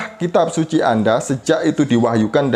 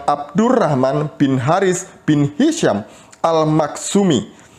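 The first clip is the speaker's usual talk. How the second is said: higher-pitched, measured book reading; reading aloud; 5 semitones higher than usual. Acted. Debater reads a passage from the Utsman book as evidence, reading aloud. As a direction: read the passage out, lingering on the names.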